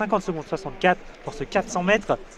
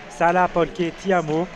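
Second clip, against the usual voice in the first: slow, hammed-up Italian accent; mock Italian accent. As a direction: play at being Italian, slowly. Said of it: "avec mon magnifique accent italien". (faux accent italien exagéré et lent)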